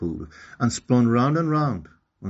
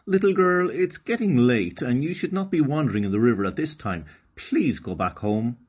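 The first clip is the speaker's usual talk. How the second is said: lightly voiced advising fish; 4 semitones higher, 4 dB louder than usual. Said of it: "advised Dusky Grouper".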